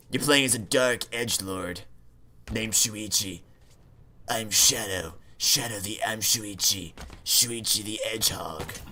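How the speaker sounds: low, quiet brooding fake-deep mutter; edgelord voice. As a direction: brood it out like an edgy antihero. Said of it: "do you like my edgelord voice".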